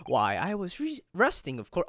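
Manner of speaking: put-on Sholmes in a British accent; pompous British detective, lightly done. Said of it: "my British accent".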